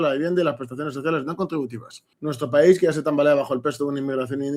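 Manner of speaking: brisk, continuous read-aloud; reading out statement. Real, not acted. Commentator reading Le Pen's reaction to listeners, brisk read-aloud. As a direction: read the statement through quickly. Voy a leer lo que dice.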